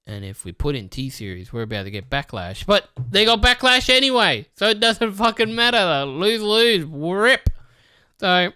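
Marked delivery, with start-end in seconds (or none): 0.0-2.7 mock nervous reasoning. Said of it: "their thought process was".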